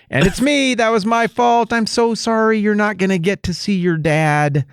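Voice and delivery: high, sheepish apologizing voice; sheepish sorry to the whole plane; mock apology. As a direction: pretend to grovel to the passengers. Apologizing to fellow passengers.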